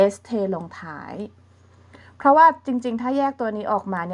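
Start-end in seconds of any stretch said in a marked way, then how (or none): none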